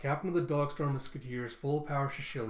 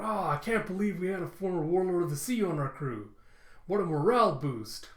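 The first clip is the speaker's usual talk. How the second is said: higher, louder awed outburst; excited marvelling; 4 semitones higher, 4 dB louder than usual. Retold or imitated. Usopp thrilled about a former Warlord joining, excited marvelling. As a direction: gush over the new crewmate.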